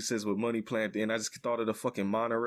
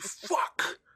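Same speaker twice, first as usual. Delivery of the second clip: hyped, excited, pumped-up swearing. Imitating how a movie actor swears when he gets hyped: imitating a hyped swear. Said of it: "he gets so hyped".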